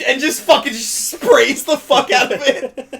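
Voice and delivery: high, loud laughing telling. Real, not acted. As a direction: laugh through the words. Laughing through the story.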